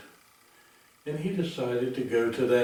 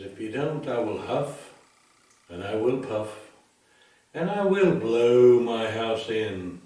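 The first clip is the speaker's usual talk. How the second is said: wolf threat; 5 dB louder than usual. Acted.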